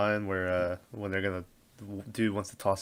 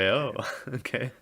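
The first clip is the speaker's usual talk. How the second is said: laughing; 4 semitones higher than usual. Retold or imitated. Quoting own reaction while laughing.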